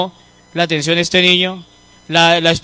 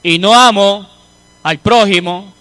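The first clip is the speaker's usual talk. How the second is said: scripture quote; 4 dB louder than usual. Acted.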